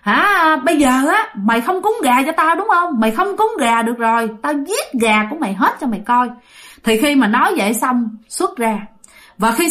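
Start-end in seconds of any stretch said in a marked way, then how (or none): 0.0-6.3 higher, taunting spirit voice; mocking ghost. Ghost possessing grandma taunts uncle Tám, higher and mocking. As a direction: sneer like a fearless ghost. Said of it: "Vong này cười ha hả lên nói rằng á".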